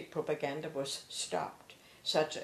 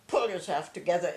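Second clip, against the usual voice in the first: a firm, louder order, lightly imitating a stern officer; soldierly command; 5 dB louder than usual. Father orders the crying mother to pull herself together, a mock soldierly command. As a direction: snap it out like an officer to his family. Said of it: "He was very soldierly".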